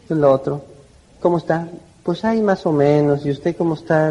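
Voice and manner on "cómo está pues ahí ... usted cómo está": unenthusiastic greeting. Shown as a demonstration. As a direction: greet someone with no enthusiasm at all. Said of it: "no parece estar muy entusiasmado". (saludo apagado y sin ganas)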